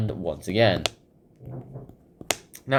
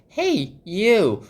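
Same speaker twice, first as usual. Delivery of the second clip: high, louder bossy call; bossy rabbit; 10 semitones higher, 7 dB louder, much slower than usual. Retold or imitated. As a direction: summon a servant sharply. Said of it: "he's all like".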